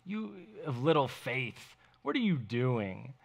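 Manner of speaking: understated mock disgust; scolding in disgust. Jesus imagined reprimanding doubting Peter, mildly disgusted scolding. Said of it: "he's scalding him. "Ah," in disgust".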